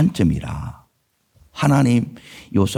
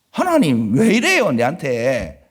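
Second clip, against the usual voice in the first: complaining to God; 2 semitones higher, slower than usual. Retold or imitated. Pastor voicing a believer protesting to God, aggrieved. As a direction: whine it like a wronged believer.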